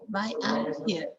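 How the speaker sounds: "I'm" reduced, unstressed; weak I'm. Shown as a demonstration. Teacher modelling weak "I'm". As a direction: let "I'm" slide weak. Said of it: "I'm is a weak here".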